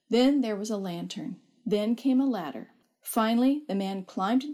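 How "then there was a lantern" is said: ordinary delivery, nothing marked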